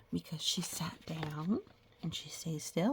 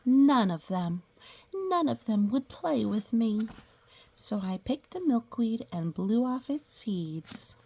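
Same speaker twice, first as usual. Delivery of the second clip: slow, drawn-out storybook reading; reading to children; 2 semitones higher, 3 dB louder than usual. Acted. Teacher reading a picture book to the class, storybook voice. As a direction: read it like a picture book for little kids.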